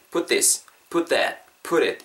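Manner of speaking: "put this", "put that", "put it" each run together; words linked. Shown as a demonstration. Teacher shows how words join, "put this", "put that", "put it" linked. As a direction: join each pair, "put it" sounding like "purit". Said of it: "이렇게 붙겠죠".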